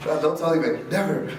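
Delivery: put-on high, childish protest; mock childish jinn. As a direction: play a sulky kid keeping a secret.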